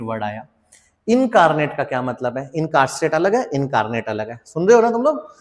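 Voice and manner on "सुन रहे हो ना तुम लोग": calling out. Real, not acted. Teacher checking students listen.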